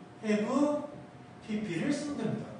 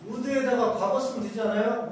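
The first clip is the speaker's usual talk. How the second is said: 엉뚱한 학생 흉내; 6 semitones higher, 3 dB louder than usual. Retold or imitated. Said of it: "어떤 놈은 선생님".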